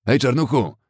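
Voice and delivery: loud mocking yell at the boy; jeering shout. Thug jeering at black youth, loud taunt. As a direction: sneer it out loud.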